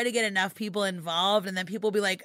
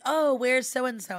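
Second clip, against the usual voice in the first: slow, higher-pitched mock question; imitating audience member; 5 semitones higher, slower than usual. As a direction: draw out the question like an expectant fan. Voices audience asking for absent guest.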